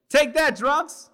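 very high, slow, loud taunt; children taunting the drunk men; kids yelling. A narrator's reading. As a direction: shout it like a kid throwing rocks. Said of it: "we yell back".

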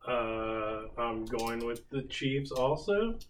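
hesitant, slow and unconvinced; unsure. Real, not acted. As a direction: say it without conviction. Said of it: "you don't sound very confident".

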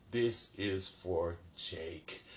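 slow, drawn-out threat; a killer doll savoring each word; menacing Chucky. Retold or imitated. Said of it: "utters the word".

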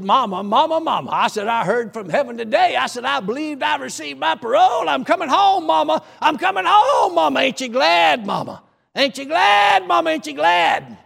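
high, loud joyful shouting; overjoyed shout. Retold or imitated. Son on the phone telling mama he's coming home, joyful shouting. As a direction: burst out with the good news. Excited call to his mother.

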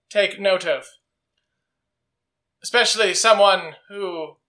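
slow, deliberate acted speech with long pauses; solemn confronting Jack. Jack confronts his old friend Chuck, solemn and measured. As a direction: weigh each phrase, in character.

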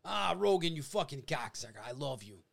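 gruff affectionate insult, lightly voiced; Diaz-style cocksucker love; Joey Diaz impression. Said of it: "if you listen to Joey Diaz".

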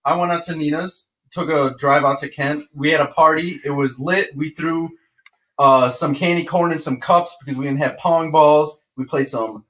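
upbeat, lively retelling; hype man. Shown as a demonstration. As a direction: tell it like the party's on. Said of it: "let me be the hype man".

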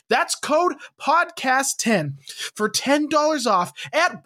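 upbeat, emphatic podcast sponsor read. Real, not acted. Podcast host pitching sponsor insoles to listeners, amped-up ad read. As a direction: sell it with bouncy, amped-up emphasis.

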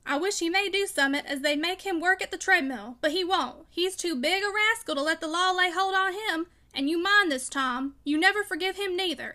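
loud, bitter unforgiving tirade. A narrator's reading. Father urging Tom never to forgive his enemy, loud and vehement. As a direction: hammer out each grievance forcefully. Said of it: "he said in a louder yet deeper tone".

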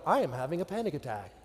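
deadpan, slightly quickened calm announcement; serene exterior. Acted. Son telling his mom about his panic, serenely deadpan. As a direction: report inner panic with outward composure. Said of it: "beneath a serene exterior".

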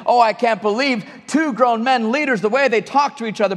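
mock-appalled complaint. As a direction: imitate someone appalled at what they saw. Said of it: "we can be so appalled".

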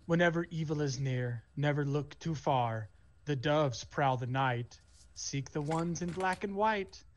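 slow, measured nursery-rhyme chant; recited warning rhyme. Acted. Village kid repeats mom's warning about doves, slow recitation. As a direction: recite it slowly like a learned verse.

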